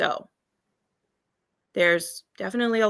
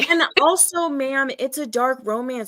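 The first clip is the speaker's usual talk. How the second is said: exasperated rebuttal; 3 semitones higher than usual. Acted. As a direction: scold an imagined critic, mock-polite. Indignant rebuttal to imagined critic.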